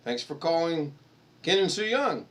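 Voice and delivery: sing-song welcome for callers; hammed-up answering machine voice; cheery answering machine greeting. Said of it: "we'd let the phone calls go to the answer machine and be".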